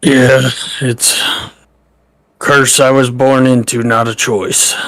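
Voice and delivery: put-on half-hearted Irish accent, not quite pulled off; a hint of badly faked Irish. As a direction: attempt an Irish accent and miss slightly. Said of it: "it's like a bad accent. It's like somebody trying to do an Irish accent".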